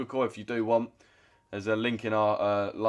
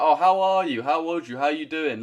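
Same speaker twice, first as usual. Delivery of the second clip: much higher and louder, gushing sympathy; mock fawning concern; 6 semitones higher, 4 dB louder than usual. Streamer mocking chat fussing over an ill woman, gushing high. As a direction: overdo the caring, like a chat simp. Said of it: "everyone's like".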